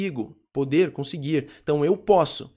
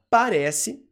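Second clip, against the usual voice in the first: drawn out; 5 semitones higher, 3 dB louder than usual. Shown as a demonstration. Teacher stretches word explaining meaning.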